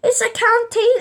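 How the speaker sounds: slow, high mock scold; hammed-up canteen lady telling kids off; mimicking the canteen lady's scolding; stern dinner lady. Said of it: "And she's like".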